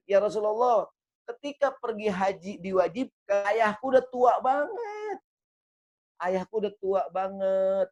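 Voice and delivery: high-pitched pleading daughter; pleading woman. Retold or imitated. Woman pleading about old father.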